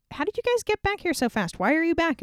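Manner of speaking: can't believe they're back already; baffled high voice. Acted. Azahiah questions his servants, high and incredulous. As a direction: pitch way up, incredulous.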